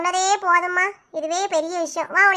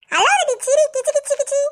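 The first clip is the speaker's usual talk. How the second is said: high, playful and laughing, coaxing a smile; playful tickling; 8 semitones higher, 3 dB louder than usual. Acted. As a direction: tease her into laughing with a tickle. Tickling a friend to cheer her.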